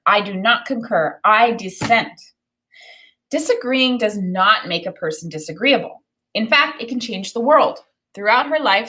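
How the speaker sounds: clear, expressive picture-book read-aloud; storybook reading voice; reading aloud to children. Acted. Teacher reads book aloud.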